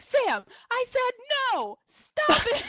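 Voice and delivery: high mock shout, building in volume; exasperated refusal. Mikey refusing Sam's hug demands, exasperated. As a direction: imitate a fed-up friend shouting her off. Retold refusal of pestering friend.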